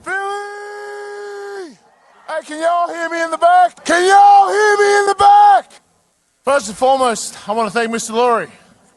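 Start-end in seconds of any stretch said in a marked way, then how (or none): 0.0-1.8 crowd-rousing yell; shout. Real, not acted. Player hypes parade crowd. 2.3-5.7 loud call to the back rows. Real, not acted. Calling out to a crowd.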